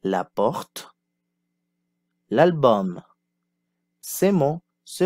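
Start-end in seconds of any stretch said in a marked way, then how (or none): 0.0-3.0 model repetition. Shown as a demonstration. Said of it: "Répétez".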